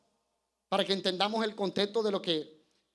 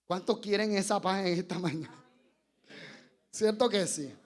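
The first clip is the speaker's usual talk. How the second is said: usual speaking voice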